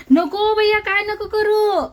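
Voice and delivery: high, loud pleading "no", slowing down. Real, not acted. Mother pleads with her little boy not to touch the chicks, high and loud.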